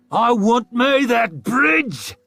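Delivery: slow, high, loud savage snarl. A narrator's reading. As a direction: growl out your hunger for the bridge. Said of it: "snarled the great wolf".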